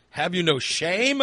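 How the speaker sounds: mock scolding. Scolding the smelly friend.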